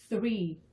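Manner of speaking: THREE with an unvoiced th; voiceless TH. Shown as a demonstration. English teacher models three, voiceless TH. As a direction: say "three," tongue between the teeth, no voice on the th. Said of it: "요 무성음의 발음이 되겠죠".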